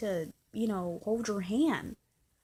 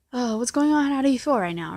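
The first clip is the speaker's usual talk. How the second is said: louder, higher-pitched caring greeting; mock cheery check-in; 4 semitones higher, 9 dB louder than usual. Boyfriend checking on girlfriend after surgery, mock cheery. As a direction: act out an eager phone check-in.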